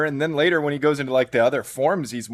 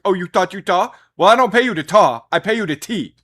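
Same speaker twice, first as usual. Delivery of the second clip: louder, mock-scolding trailer quote; John Cena impression; 4 semitones higher, 6 dB louder than usual. John Cena talking to Tweety in the trailer, mock scolding. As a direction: play the indignant boss, punchy and raised. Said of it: "and he's like".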